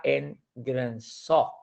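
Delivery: Grönsak with the weight on its final "sak"; stress on last syllable. Shown as a demonstration. Teacher showing how the word Grönsak is said, final syllable stressed. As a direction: land on the end of Grönsak, said like "sok". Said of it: "Cómo nosotros decimos esta palabra".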